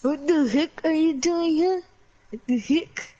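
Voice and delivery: put-on shaky grasp of a Russian accent; attempted Russian accent. Redoing it for friends in the game, attempted Russian accent. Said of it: "so I can do the Russian accent".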